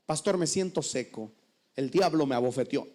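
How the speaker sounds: droopy low imitation; self-pitying member. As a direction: whine that the devil did it. Member blames the devil.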